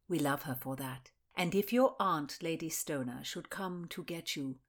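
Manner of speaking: a cold, accusing noblewoman; stern noble lady. Acted. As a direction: interrogate her like a grand lady. Mildred voiced again.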